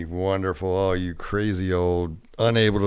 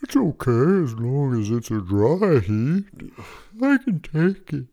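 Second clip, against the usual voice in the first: tough creature whisper; 5 semitones higher, 5 dB louder than usual. Acted. Water bear brags about heat.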